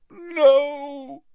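high, drawn-out pained groan. Acted. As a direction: groan the word in agony. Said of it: "he groaned".

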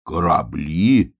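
slow, drawn-out puzzled question; amazed. Acted. Bear cub hears about ships, slowly amazed. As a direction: stretch the word in mild wonder. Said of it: "изумился медвежонок".

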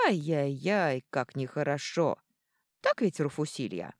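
tut-tut at a naughty brute; scolding dwarf woman. Acted.

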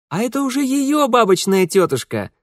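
eine der Schwestern. A narrator's reading. Sisters bicker over portraits.

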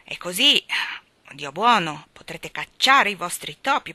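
put-on keen boy talking fast about ferrets; lively, eager boy. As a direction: sell the ferrets with bright enthusiasm. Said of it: "disse Bob vivamente".

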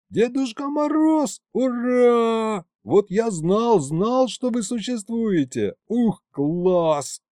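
high delighted cheering; thrilled. Acted. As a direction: burst with joy at meeting him. Boy thrilled to meet Santa.

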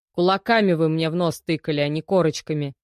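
a sullen snap back; snapping back. Acted. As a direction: bite back at the cop. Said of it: "огрызнулся задержанный". (огрызаясь)

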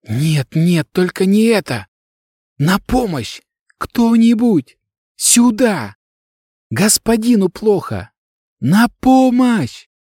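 high, desperate, stretched-out calls for help; panicked cries. Acted. Girl over her master's cold body, screaming in panic. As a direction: beg anyone at all to come, in terror. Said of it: "Она кричала".

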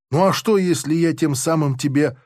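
ordinary delivery, nothing marked

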